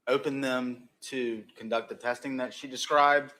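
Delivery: talking around a candy in mouth; words slightly muffled by a lozenge; mouth full. Real, not acted. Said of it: "I have a lifesaver in my mouth".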